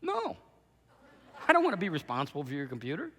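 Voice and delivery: curt, fast flat no; blunt refusal. Retold or imitated. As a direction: brush him off quickly. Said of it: "You know what she said to me?".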